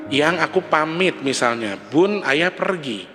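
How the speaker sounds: gentle goodbye. Retold or imitated. Husband gently saying goodbye.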